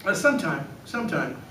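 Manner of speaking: a little raspy from allergies; slightly hoarse voice. Real, not acted. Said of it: "a little raspy".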